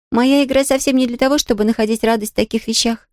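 put-on a young girl, puzzled and earnest; puzzled Pollyanna. Pollyanna asks Nancy, surprised girlish voice.

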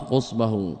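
قصبه with rounded u after the qaf; damma on the qaf. Shown as a demonstration. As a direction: repeat قصبه as "qusbahu", with a short u. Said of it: "بضم القاف".

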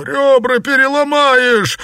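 high howling cry of pain; wailing. Acted. Xuepan howls at Liu Xianglian as he is beaten. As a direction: howl it while rolling on the ground. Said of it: "вопил Сюэпань".

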